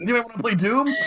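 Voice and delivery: high-pitched imitation of eager excitement; mock-giddy invitation, pitched high; excited. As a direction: pipe it up like an overexcited friend. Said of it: "he was so excited about it".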